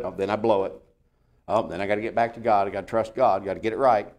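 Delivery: owning up with a touch of defeat; mild sheepish admission. Acted. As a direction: play a deflated believer, lightly. Acts out the same slip repeated.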